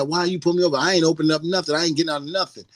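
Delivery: high-pitched mock indignation; acting big and bad. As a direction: imitate a defiant driver refusing to cooperate. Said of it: "they're acting all big and bad".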